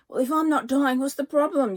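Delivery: worried, pleading for an answer; anxious. A narrator's reading. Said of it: "wringing her hands".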